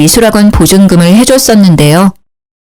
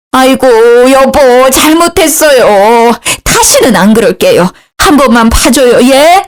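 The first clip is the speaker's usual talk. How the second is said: begging mother-in-law; 4 semitones higher than usual. A narrator's reading. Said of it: "시모 역시요".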